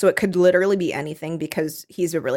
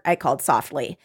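normal talking voice

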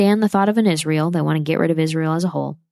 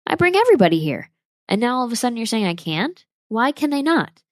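much higher, louder indignant retelling of the tour guide; retold angry outburst; 9 semitones higher, 3 dB louder than usual. Tour guide protesting to the embassy guards, in a high, loud indignant voice. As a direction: act out the guide's exasperated protest, pitched way up. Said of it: "he even gets mad".

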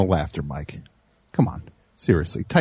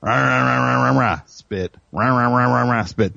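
mock French ranting. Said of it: "I'm not gonna do a French thing".

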